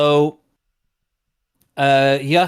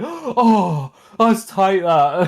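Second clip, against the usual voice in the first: imitated cinema audience; 2 semitones higher, much slower than usual. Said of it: "people in the cinema going".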